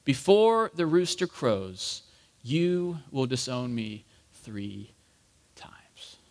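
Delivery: slow, fading to a whisper; remembered words. Acted. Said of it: "remembered the word that Jesus had spoken".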